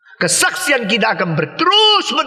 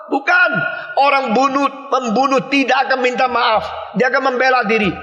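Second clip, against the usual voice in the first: preaching shout; 5 semitones higher than usual. Real, not acted. Preacher rejecting the idea that killers repent, shouting. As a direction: hammer it home from the pulpit.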